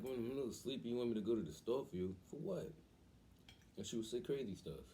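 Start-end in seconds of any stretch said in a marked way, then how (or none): 0.0-2.7 groggy disbelief. Retold or imitated. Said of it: "And, like".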